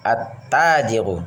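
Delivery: at-tajiru with the lam silent, going straight to a doubled t; slow at-tajiru, run "at" straight into "tajiru"; lam assimilated. Shown as a demonstration. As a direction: say at-tajiru with no l sound, holding the t. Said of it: "Jadi langsung ke huruf setelahnya".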